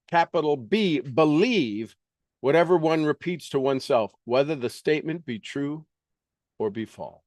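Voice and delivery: quick, earnest reading aloud from a self-help book; reading a self-help classic aloud. Acted. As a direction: read the passage briskly like scripture.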